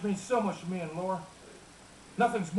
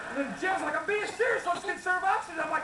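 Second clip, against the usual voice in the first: folksy Texas twang; Texas accent; 3 semitones higher than usual. Acted. Folksy rancher telling family stories to a crowd, Texas accent.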